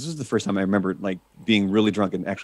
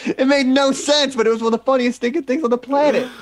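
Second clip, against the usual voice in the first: laughing; 13 semitones higher than usual. Real, not acted. Still laughing at the memory.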